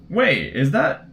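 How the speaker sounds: high, rising, dawning surprise; wait, it finally clicks; surprised realization. Real, not acted. Realizes what the sticker was.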